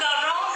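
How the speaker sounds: "grown" without its G, like "rone"; mispronunciation. Retold or imitated. Teacher points out the student's missing G, mispronunciation. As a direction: drop the G from "grown". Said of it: "Không có G".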